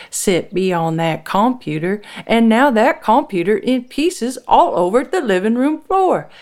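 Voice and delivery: high, loud, mounting complaint; heated retort. A narrator's reading. Wife defending herself to Frank, heated. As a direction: hammer each grievance home at your husband. Wife snaps back in quarrel.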